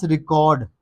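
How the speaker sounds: रिकॉर्ड as ri-KOD; wrong pronunciation. Shown as a demonstration. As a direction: open O in रिकॉर्ड. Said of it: "गलत हैं". (रिकॉर्ड, रि-कॉड जैसा)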